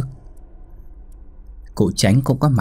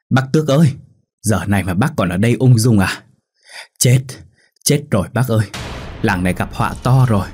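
urgent call from outside. Acted. Old friend calling Tước from the lane, alarmed. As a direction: shout the news in from the lane, alarmed. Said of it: "tiếng gọi giật giọng ngoài ngõ".

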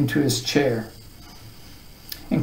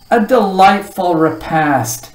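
higher-pitched, savoured proclamation; grand announcement; 4 semitones higher, 5 dB louder than usual. A narrator's reading. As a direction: announce it to the room at large. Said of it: "he announced to no one in particular".

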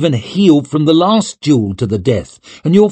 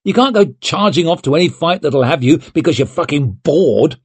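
high, insistent reprimand; heated telling-off; 7 semitones higher, 4 dB louder than usual. A narrator's reading. Friend lecturing a young lord on duty, heated. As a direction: press the point, exasperated.

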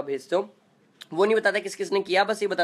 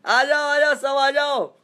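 higher, louder call to everyone; 8 semitones higher, 6 dB louder, slower than usual. Real, not acted. Streamer calling viewers to join, loud and high. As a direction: call out loud to gather a crowd.

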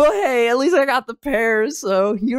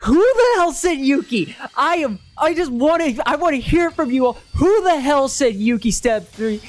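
raised pitch, demanding who said it; indignant, excited demand; incredulous outburst; 2 semitones higher than usual. Real, not acted. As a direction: challenge the chat in disbelief. Incredulous challenge to viewers on pull.

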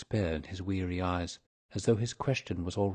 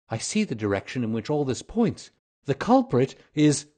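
lightly voiced companion, higher and animated; impressed companion; 4 semitones higher, 4 dB louder than usual. Companion praising the detective, rising excitement. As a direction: build with growing excitement toward a name.

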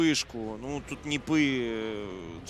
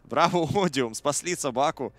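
excited; 5 semitones higher, 5 dB louder than usual. Real, not acted. Team fight climax in cast.

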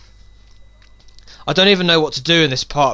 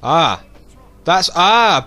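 stifled sneeze breaking through; holding back a sneeze; 2 semitones higher, 5 dB louder, much slower than usual. Real, not acted. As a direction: sneeze building up, catching it. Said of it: "I'm about to sneeze in a minute".

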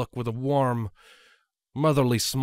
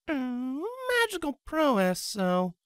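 higher voice for a character; lightly raised character voice; voiced character; 13 semitones higher than usual. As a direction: speak up as the character. Fiction read aloud, character voice.

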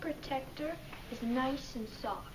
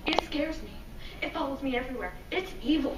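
scared whisper; 5 dB louder, faster than usual. Acted. Child confesses fear.

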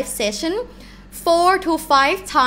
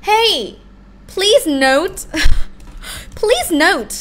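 informing; 4 semitones higher, 4 dB louder than usual. Acted. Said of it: "you want to confirm, you want to inform".

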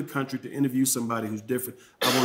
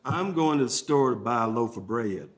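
Southern accent. Shown as a demonstration. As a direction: say it like a Southerner, stretching bread to bray-ed. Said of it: "if I'm in the South".

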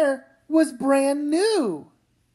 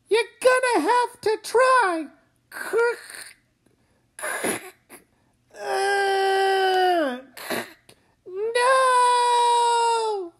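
high strained crying; crying effort; 7 semitones higher, much slower than usual. Acted. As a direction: pull with all strength, sobbing. Mother straining to pull.

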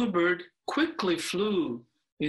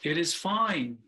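firm, gentle reassurance; slower than usual. Acted. Owl comforting the crying bluebird, slow and gentle. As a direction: soothe him slowly and firmly. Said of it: "in a firm yet beautiful, clear voice".

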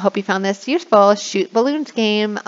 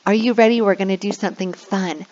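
teacher voice. Shown as a demonstration. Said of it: "and I'll say".

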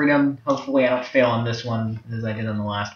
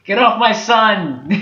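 louder, higher, drawn-out playful yell; mock protective dad; 8 semitones higher, 5 dB louder, slower than usual. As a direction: stretch it into a half-laughing yell. Playing father, repeats it exaggerated.

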